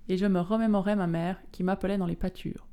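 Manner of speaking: expressive literary audiobook reading; phrase by phrase, like a dramatic novel reading; story narration. A narrator's reading. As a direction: read the memories with measured, grave feeling. Reads novel extract aloud.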